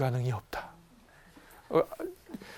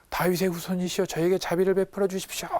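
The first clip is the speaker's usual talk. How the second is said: crying out; 4 semitones higher than usual. Acted. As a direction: call out for mercy, drawing out the end. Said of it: "소리 지르는 거죠". (소리쳐 애원하는 흉내)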